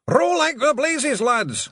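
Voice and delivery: very high, loud drawn-out pixie yell. Acted. Pixie chief yelling at his rowers, high and loud. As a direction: bellow it slowly over the storm. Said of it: "Rob Anybody yelled".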